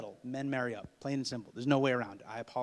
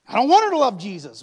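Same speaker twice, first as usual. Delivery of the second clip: shouted high, comic despair; hammed-up wail; 10 semitones higher, 22 dB louder than usual. Son to mom, high loud comic wail. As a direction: cry it out like it's a tragedy.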